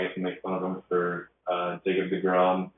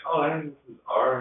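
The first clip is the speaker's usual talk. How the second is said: cheerful greeting; 8 semitones higher than usual. Retold or imitated. Retold cheerful hallway greeting.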